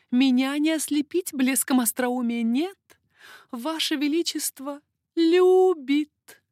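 high, lively lady's voice, teasing; coquettish baroness. Acted. Baroness teasing King Henri, high coquettish voice. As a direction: play the flirtatious court lady.

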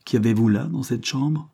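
short, clipped demand; curt question. Acted. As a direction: snap the question off curtly. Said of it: "demanda-t-elle d'un ton bref".

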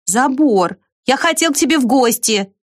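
high called reply; calling out. A narrator's reading. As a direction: shout it over the wall. Ant calls over fence.

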